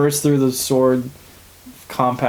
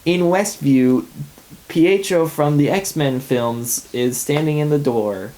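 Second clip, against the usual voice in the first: description read; slower than usual. Retold or imitated. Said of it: "the lady is like".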